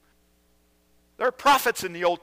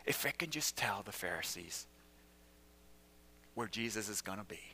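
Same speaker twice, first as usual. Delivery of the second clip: softer, sly musing; scheming Judas; 6 semitones higher, 8 dB quieter than usual. Acted. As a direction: plot it quietly to yourself. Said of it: "Judas says".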